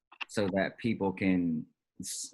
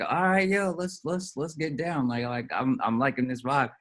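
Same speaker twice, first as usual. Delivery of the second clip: club flirt voice; 5 semitones higher than usual. Pretend. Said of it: "and be like".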